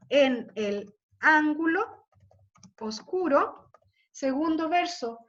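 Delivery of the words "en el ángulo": slowly, syllable by syllable; slow verse reading. Shown as a demonstration. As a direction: draw out en el ángulo to hear its beats. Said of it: "Del salón". (leyendo el verso despacio)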